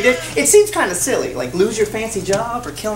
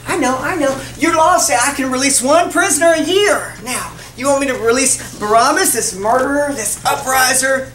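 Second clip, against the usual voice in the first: raised voice over a restless crowd; Pilate addressing crowd; 3 semitones higher than usual. Acted. Pilate offers the crowd a prisoner, calling out.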